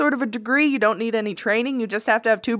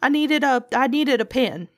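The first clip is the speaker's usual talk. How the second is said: mock stammer, a little higher and broken up; imitating stuttering; 4 semitones higher than usual. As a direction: play the caught kid tripping over his words. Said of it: "that's when he started stuttering".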